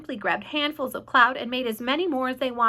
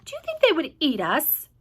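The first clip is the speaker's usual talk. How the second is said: high, worried little worm voice; a timid worm, a touch higher; nervous earthworm; 5 semitones higher, 3 dB louder than usual. Acted. Earthworm character voice.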